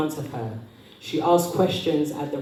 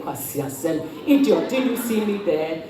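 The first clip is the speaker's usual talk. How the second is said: mock road rage. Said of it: "the temptation to wind down the window and say".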